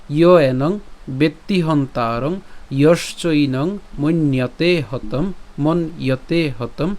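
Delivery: slow verse recitation. Shown as a demonstration. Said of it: "আমি আবার যদি প্রথম লাইনটা বলি".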